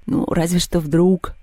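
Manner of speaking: slow, doubtful grumble; mildly grumpy, drawn-out reply; grumbling. Acted. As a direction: grudgingly concede it, slowly. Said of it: "проворчал Мишка".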